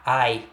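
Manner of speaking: "Ai" with a fully open oral a; open diphthong. Shown as a demonstration. Teacher showing the diphthong inside pai, open "Ai". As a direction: sound out "Ai" alone, through the mouth. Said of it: "Isso é classificação de ditongo aberto".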